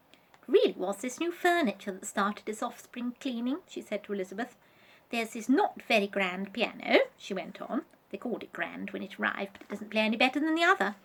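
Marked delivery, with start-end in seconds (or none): 0.1-3.6 lightly voiced fussy doll, a bit higher; a hint of a prim, chatty doll; Vanessa voice. Vanessa's voice in the story. 5.1-7.0 a hint of a prim, chatty doll; Vanessa voice. Vanessa's voice in the story. 8.1-11.0 prim doll voice, rising much higher and louder to the end; fussy doll building to a proud squeal; Vanessa voice. Acted. Vanessa's voice in the story.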